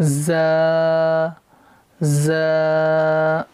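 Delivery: زا with a buzzing whistle; whistled za. Shown as a demonstration. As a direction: let زا whistle. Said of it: "اس میں سی ٹی لانا ہے". (زا میں سیٹی کے ساتھ)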